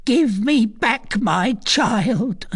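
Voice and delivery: slow, high-pitched demand; anguished recluse. A narrator's reading. Recluse demands her lost child from the girl, anguished. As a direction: draw out each word in a high, strained plea. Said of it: "said the recluse".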